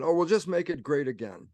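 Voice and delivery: quick, breezy quote of believers; imitating glib optimism; mock easy optimism. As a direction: toss it off as a simple fix. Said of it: "there's some kind of vision".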